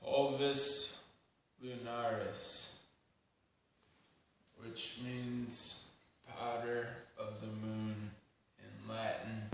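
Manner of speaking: slow, spaced-out recital; deliberate spoken-word delivery; poem title announcement. Acted. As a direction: announce it solemnly, pausing between phrases.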